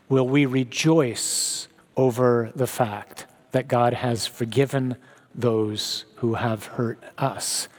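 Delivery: slow, quiet repeat. Shown as a demonstration. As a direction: drag out "God has forgiven" and fade to a hush. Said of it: "repeated slower".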